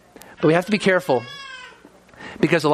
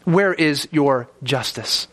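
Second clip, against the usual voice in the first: slow, lower lamenting cry; 3 semitones lower, slower than usual. Retold or imitated. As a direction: sink into a broken lament. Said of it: "he cries out in lament".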